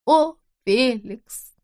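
протяжно, медленно и выше, с надрывом; тяни «О, Феликс!» как стон отчаяния; отчаянный зов. Acted. Женщина в бреду зовёт мужа. (женщина в бреду зовёт мужа: протяжный стон)

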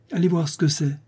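high, piercing countess's order. A narrator's reading. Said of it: "dit la comtesse d'une voix perçante". (voix perçante et haut perchée)

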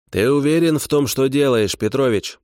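doubtful. A narrator's reading. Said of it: "с сомнением спросил".

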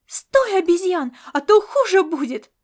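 loud, high menacing yell; cat yelling threats while chasing, loud and high; threatening shout. Acted. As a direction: threaten him at full voice. Cat threatens during chase.

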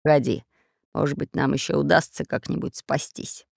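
low hoarse pirate rasp. Acted. Pirate rasping to his mate while untying stems. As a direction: croak it low while struggling. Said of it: "прохрипел пират Бульбуль".

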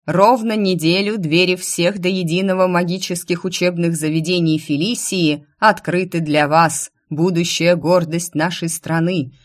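rally the future mages; town crier. Acted. Crier continues proclamation.

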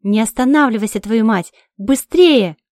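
loud cursing yell, rising on the last word; desperate cursing at the driver; furious shout. Acted. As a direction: scream at him not to stop. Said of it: "Я кричу".

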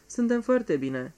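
slow, firm and sure of herself; firmly. Acted. Geraldine assures the visitor all is fine, slow and firm. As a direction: settle it firmly, no room for doubt. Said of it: "spuse cu fermitate Geraldine".

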